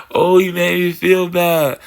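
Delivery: slow, lightly whined complaint; hammed-up sulking voice; mock whiny. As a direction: imitate a sulky sad-sack. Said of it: "sit in the corner and be like".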